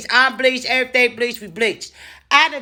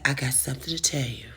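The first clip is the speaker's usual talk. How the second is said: much softer, lower, a bit quicker; ominous hushed setup; grave quiet warning; 7 semitones lower, 10 dB quieter, faster than usual. Retold or imitated. Boss preparing bad news.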